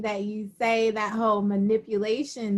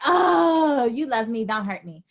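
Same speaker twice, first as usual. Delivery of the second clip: mock pleading. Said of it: "be like".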